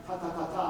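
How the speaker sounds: "ta, ta, ta, ta" as short open puffs; repeated open syllables. Shown as a demonstration. Teacher setting up the drill, short open "ta, ta, ta, ta". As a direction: say "ta, ta, ta, ta" with no closing T between. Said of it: "say ta three times in a row without getting that T".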